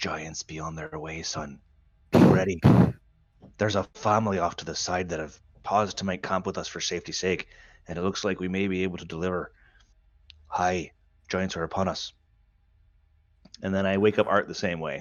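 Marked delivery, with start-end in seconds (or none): 0.0-12.1 whispered, in a put-on character voice. Waking a sleeping companion in character as giants approach: whispering in character. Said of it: "I whisper to you".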